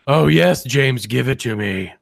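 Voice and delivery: a hint of a breathy mother voice; lightly voiced moaning mom, slowed; mock orgasm voice. Podcast host jokingly voices his cohost's mother in bed, mock moan. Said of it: "Like that".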